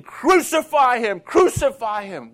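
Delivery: loud mock crowd chant; retold mob yelling for crucifixion; crowd screaming. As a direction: shout it like an angry mob. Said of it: "And they're screaming".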